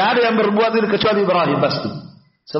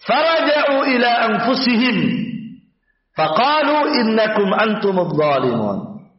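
verse recitation; slower than usual. Shown as a demonstration. Reciting the verse before explaining it.

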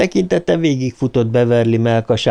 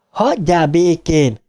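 mild cry of defiance; 6 semitones higher than usual. A narrator's reading. Beverly repeats her cry at father.

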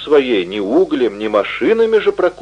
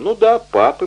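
quick, high, eager confirmation; eager confirming; 13 semitones higher than usual. A narrator's reading. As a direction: blurt it out eagerly. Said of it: "подтвердил юный Руа".

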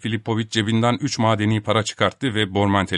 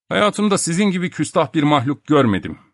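raised-pitch indignant rebuke; angry; 7 semitones higher, 3 dB louder than usual. A narrator's reading. Professor scolding Topak for his insolence, angry. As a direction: tell off an insolent creature with contained anger. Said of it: "kızgınlıktan burnundan soluyordu".

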